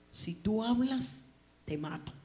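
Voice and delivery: imitated bully's warning; retold threat. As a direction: menace him slowly, then drop the voice for the last words. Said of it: "me amenazaba y me decía".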